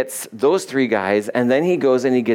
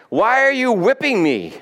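high-pitched donkey's protest; high, indignant question from an animal; talking donkey; 8 semitones higher than usual. Acted. Donkey to the owner beating it, high-pitched protest. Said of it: "the donkey was like".

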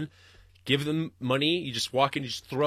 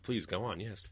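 fascinated listener; 4 semitones lower, 10 dB quieter than usual. Pretend. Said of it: "you just sit there like".

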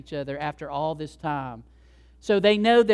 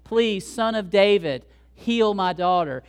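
raised voice, mild preacher's yell; imitated yelling plea; 5 dB louder than usual. Mother begging Jesus for her daughter, mildly acted yell. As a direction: plead loudly, leaning on each phrase. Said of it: "She's yelling at Jesus".

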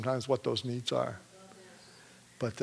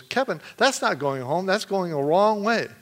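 higher-pitched retold protest; complaining; 5 semitones higher than usual. Brother objects to the wrong turn home, complaining. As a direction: imitate a brother's mild complaint. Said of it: "he's complaining".

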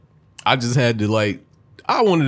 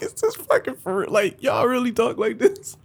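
incredulous; 12 semitones higher than usual. Retold or imitated. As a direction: drag it out in disbelief. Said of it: "I'm like".

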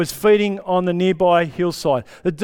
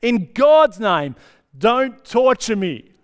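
mild mock shout; 3 semitones higher, 3 dB louder, slower than usual. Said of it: "He shouted at the top of his voice".

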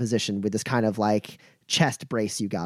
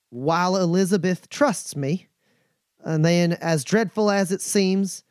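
put-on nervous young courier; 3 semitones higher than usual. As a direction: confess haltingly to the lady. Stephen's long confession voiced.

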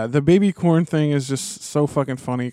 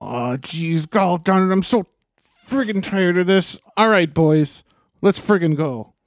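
put-on Minnesota accent; 2 semitones higher than usual. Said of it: "Minnesota Witch King".

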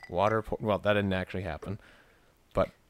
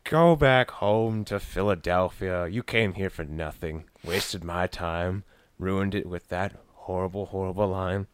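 mock scolding; slower than usual. Mock heckling the actor.

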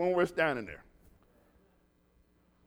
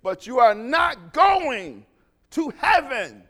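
"going" drawn out, slow and louder, falling; slow down and lean hard on "going"; stress on going; 4 semitones higher, 9 dB louder, slower than usual. Acted. Telling a friend he won't reach heaven, stressed.

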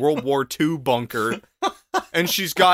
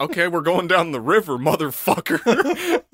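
laughing mock command. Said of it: "you're like".

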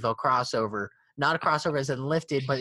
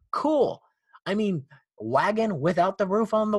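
excited; 5 semitones higher than usual. Real, not acted. Gushing over the Baja.

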